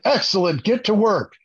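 mock instructor sending the class off; R. Lee Ermey. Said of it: "I go full R. Lee Ermey".

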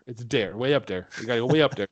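"dare" with a D, Minnesotan lilt; Minnesotan accent. Shown as a demonstration. Cohost showing the Minnesotan "way up dare", in a light Minnesotan accent. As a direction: say "Way up there" like a Minnesotan. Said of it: "It's D E R".

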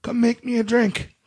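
high-pitched impression of a woman calling upstairs; put-on high calling voice, teasingly "sensual"; mock super sensual voice. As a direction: imitate her summons, pitched well up. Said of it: "that super sensual voice".

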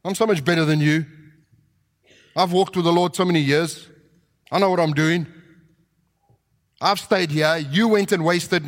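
a hint of Pharisaical contempt; smug older brother. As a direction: look down on him from the step. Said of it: "It's a Pharisaical attitude".

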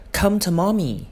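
high cooing call to a dog; dog owner cooing. Retold or imitated. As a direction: coo it like a doting dog owner. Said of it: "interjections like".

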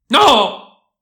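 sudden high, loud cry of refusal; desperate shout. A narrator's reading. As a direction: cry out as a struggling prisoner. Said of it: "gridò l'uomo". (grido acuto e disperato)

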